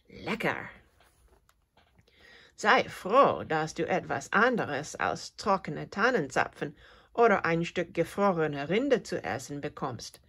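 admonishing. Acted. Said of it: "ermahnt die Grille den kleinen Leo".

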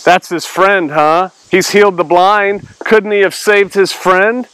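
mildly mocking skeptic; light impression of a scoffer; scoffing. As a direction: question it like a doubting onlooker. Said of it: "Scoffers, right? I mean, that's really what they are".

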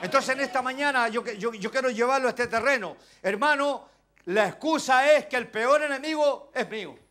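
loud, fervent preaching to the flock; preaching at full force. Acted. Preacher urging his brothers to value God's grace, fervent and loud. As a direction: drive every line home from the pulpit.

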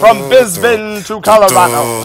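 rally the nation; mock-solemn anthem speech; grand patriotic speech. Patriotic speech over music.

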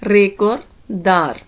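recordar stretched out very slowly; very slow Spanish word for learners; slow teaching demo. Shown as a demonstration. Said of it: "next word ਹੈ". (recordar ਨੂੰ ਬਹੁਤ ਹੌਲੀ ਬੋਲੋ)

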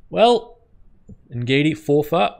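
high, loud rising well; excited exclaim. Real, not acted. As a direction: rise with anticipation. Final wicket falling.

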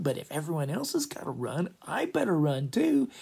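mock urgency. Acting Bottom deciding to flee.

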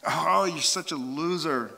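slow, drawn-out self-disgust; self-berating. Acted. Person to himself, exasperated self-reproach. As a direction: groan it at yourself, stretching the words. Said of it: "to myself".

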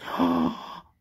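long, low breathy "ah"; acted gasp of amazement; imitated amazed gasp. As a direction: let out a drawn-out mock gasp. Imitates the listener's amazed reaction.

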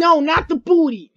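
yelling at the teammate not to hit; protesting. Real, not acted. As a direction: cry it out as the hit lands. Character hit, crying out.

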